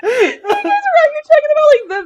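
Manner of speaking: laughing. Real, not acted. Explains while laughing, near tears.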